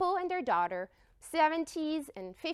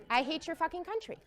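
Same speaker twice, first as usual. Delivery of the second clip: laughing repeat; 3 semitones higher, 5 dB quieter, faster than usual. Retold or imitated.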